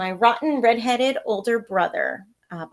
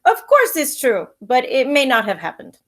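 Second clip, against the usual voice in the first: high, teasing grandma's answer; playful grandmother; 4 semitones higher, 9 dB louder than usual. Acted. Grandmother answering the children with a playful laugh. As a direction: tease the kids gently as grandma.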